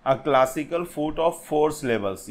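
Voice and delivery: very slow, word by word, like dictating notes; slow dictation. Shown as a demonstration. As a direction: read it out slowly so students can write it down. Reading out a definition slowly.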